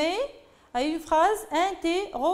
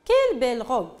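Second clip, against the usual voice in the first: admiring exclamation; 4 semitones lower, 4 dB louder, faster than usual. Shown as a demonstration. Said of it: "Elle exprime un sentiment".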